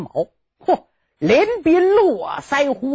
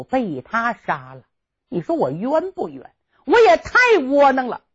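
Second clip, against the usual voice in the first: 委屈难过的心声. Acted. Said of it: "薛丁山心里可难过了".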